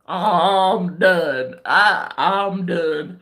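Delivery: put-on British accent, slowing as it goes; indignant British send-off, dragging out the ending. Acted British brush-off of the friend.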